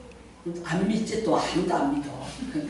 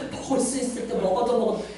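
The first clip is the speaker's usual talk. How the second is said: laughing; faster than usual. Retold or imitated. Same words repeated with a laugh.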